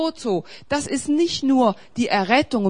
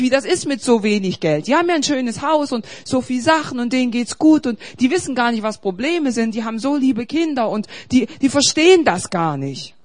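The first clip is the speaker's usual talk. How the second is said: mock self-pitying complaint; 4 dB louder than usual. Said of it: "kommst du nach Hause und sagst".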